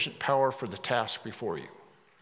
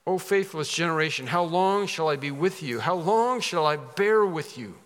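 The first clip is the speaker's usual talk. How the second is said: Jesus rebuking; 4 semitones higher, 4 dB louder than usual. Acted. Preacher voicing Jesus' rebuke.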